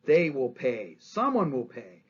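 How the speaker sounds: slow, seething How dare they, then grimly vowing; infuriated. Retold or imitated. Guiteau spurned by the stalwarts, vowing revenge in mock fury. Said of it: "he's infuriated".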